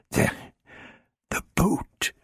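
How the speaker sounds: high, barely voiced whisper; fading out as he faints; a weak, breathless whisper. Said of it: "whispered Ian".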